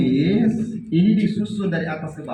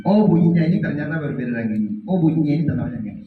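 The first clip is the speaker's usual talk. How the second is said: rattled off quickly; quick repeat of the child's realization; faster repeat; much faster than usual. Shown as a demonstration. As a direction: rush through the repeated line. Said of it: "Oh, ternyata ini berbeda".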